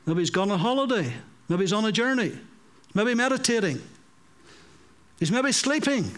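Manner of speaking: rising taunts, quick and scornful; mocking. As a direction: tease them with growing scorn. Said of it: "he begins to mock them".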